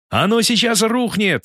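high, slow terrified yell; panicked scream. Acted. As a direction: scream that it's collapsing. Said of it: "истошно завопили голоса мятежников".

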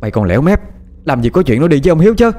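jab every word at him; shrill accusation. A narrator's reading. Mother Ngân points at Xí, shrill furious accusation. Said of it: "Bà Ngân chỉ vào mặt nó".

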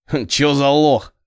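slow, lazy thug drawl; sluggish toss-off. A narrator's reading. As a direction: toss it off lazily. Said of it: "Кто-то вяло бросил". (вяло, лениво)

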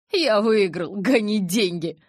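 triumphant holler; calling from indoors. A narrator's reading. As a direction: shout it out from inside the house. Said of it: "донёсся из дома голос Эммета".

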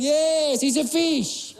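hint of a matter-of-fact bystander; lightly voiced unhelpful local. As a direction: state the obvious, lightly in character. Unhelpful Alain's retold answer.

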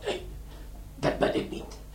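feeble, whining mock suffering; hammed-up weakness. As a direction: play the wounded man badly on purpose. Faking injury to avoid arrest. (overdreven zwak en zielig gespeeld)

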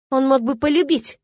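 high, loud, anguished protest; shriek. A narrator's reading. Milena protests that he could love her, shrieking. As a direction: cry it out high and hard. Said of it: "взвизгнула она".

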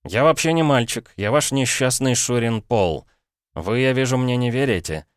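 put-on a boy begging his uncle to hear him out; desperate boy Paul. Paul pleads with his brother-in-law, urgent boyish voice.

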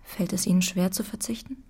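soft unvoiced whisper. Jette whispering to Manao about renunciation. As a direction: whisper it intimately.

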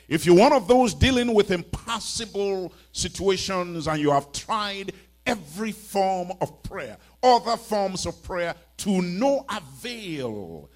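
loud, emphatic preacher's delivery; forceful preaching. Real, not acted.

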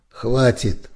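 commanding stop; shout. A narrator's reading. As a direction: shout him down. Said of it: "закричал призрак".

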